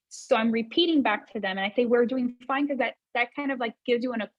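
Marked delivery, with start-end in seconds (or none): 1.9-2.7 "We're doing fine" ending on a rising, questioning tune; upward inflection. Shown as a demonstration. Coach repeats the client's phrase as a rising question. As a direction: lift "fine" up as if asking. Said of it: "the mirroring is that upward inflection I've just used".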